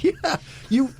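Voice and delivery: high-pitched imitation of a puzzled fan; retold excited fan. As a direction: play an eager fan trying to work it out, voice up high. Retold fan confusing the films.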